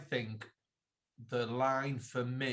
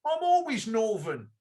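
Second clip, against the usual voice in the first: mock London accent, pitched up and louder; imitating a northern friend badly in London vowels; 7 semitones higher, 5 dB louder than usual. Telling co-host what Mark said, in a hammed-up London accent. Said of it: "In a London accent".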